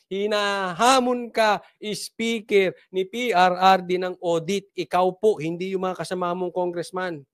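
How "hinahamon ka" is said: slow, drawn-out challenge; emphatic repeat. Real, not acted. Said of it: "ulitin ko". (mabagal at madiing paghahamon)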